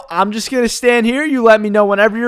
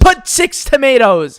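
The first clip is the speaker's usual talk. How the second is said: slow, higher demanding "Put six tomatoes"; mock demand; 5 semitones higher, 3 dB louder, slower than usual. Customer ordering the worker around, mock demanding. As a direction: bark the order with each word pressed. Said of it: "this lady lost it".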